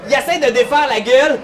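laughing and building to a high, loud shout; excited shout. Acted. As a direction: pile on the drama until you yell. GM narrates the dragon's struggle.

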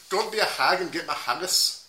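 copycat mock Scottish accent; Scottish accent attempt. Player repeating friend's saying, rough Scottish accent. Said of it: "What is something that Scottish people say?".

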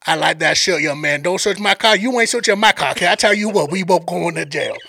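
lightly played Cajun guide joking; Sambo's Cajun accent. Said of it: "I'm gonna play this dude's accent".

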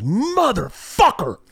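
slow, high mock scream; dad screaming curses. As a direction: imitate a terrified dad cursing, high and drawn out. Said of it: "looking at my dad screaming".

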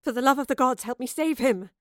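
loud, pleading demand; desperate demand. A narrator's reading. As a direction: beg her to save the boy. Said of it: "the soothsayer demanded".

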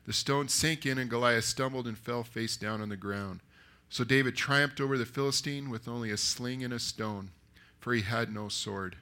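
measured, firmly projected story reading; scripture narration. A narrator's reading. Preacher reading David's answer to Saul, steady narration. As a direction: read the Bible story out to a congregation. Reads the Bible story aloud.

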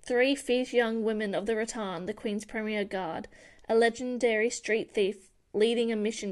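steady book-blurb reading. Acted. Reading the blurb to her co-host, measured read. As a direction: read it like a back cover.

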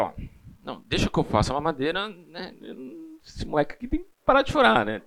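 desperate. Retold or imitated. Husband begging wife to let him make the bottle, frantic. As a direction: rush it like a frazzled new dad. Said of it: "Então, desesperado".

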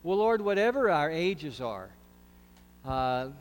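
prayer. Acted. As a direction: pray it humbly, unhurried. Leads a prayer.

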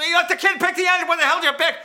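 high, very loud accusation; furious dad yelling. Retold or imitated. Dad learns his kid picked the engine, furious yelling. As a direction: holler it as the outraged father.

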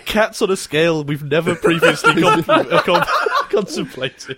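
high voice breaking into laughter; cracking up. Real, not acted. Podcaster cracking up over own cat joke, laughing. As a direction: struggle to finish the word through real laughter.

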